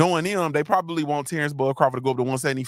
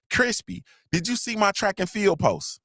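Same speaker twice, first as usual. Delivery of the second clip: higher-pitched mocking imitation of a woman; imitating Lala D; 5 semitones higher than usual. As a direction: lightly mimic her pestering question, pitched up. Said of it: "and what she do?".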